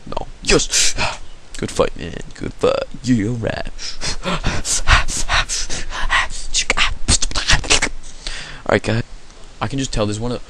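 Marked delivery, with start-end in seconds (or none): 3.7-8.6 long run of puffing breaths; heavy breathing. Real, not acted. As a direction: huff and puff wordlessly. Breath noises between game rounds.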